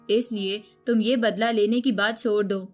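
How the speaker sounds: usual speaking voice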